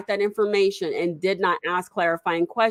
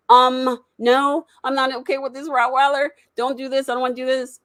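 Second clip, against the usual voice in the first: retold firm refusal; 6 semitones higher than usual. Refusing the gift Rottweiler.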